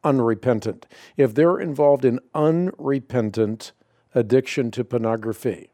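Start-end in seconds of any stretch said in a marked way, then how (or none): 0.0-0.9 unrepentant said as a pointed key word; deliberate weight on "unrepentant"; emphasis on unrepentant. Real, not acted. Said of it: "I emphasize the word unrepentant". 1.2-3.7 unrepentant stretched and weighted at the phrase's end; stress on unrepentant. Real, not acted. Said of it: "I emphasize the word unrepentant".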